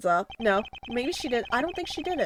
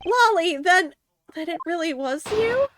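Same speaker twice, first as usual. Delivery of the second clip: put-on higher, distraught girl's voice; shaken young woman; 8 semitones higher than usual. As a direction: voice Lolly reeling from the shock. Reads Lolly's shocked lines.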